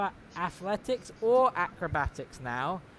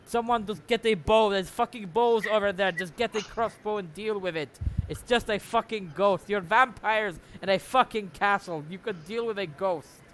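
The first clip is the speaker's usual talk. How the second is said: exasperated shout, higher and louder; raised, pressing in-character yell; 4 semitones higher, 5 dB louder than usual. Acted. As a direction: bark orders at useless underlings. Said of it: "he's shouting out".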